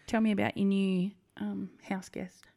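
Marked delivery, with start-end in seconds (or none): 1.4-2.4 slow, hushed conspiratorial whisper; slow teasing whisper. Pretend. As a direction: whisper it like a juicy secret. Teasing about new pet.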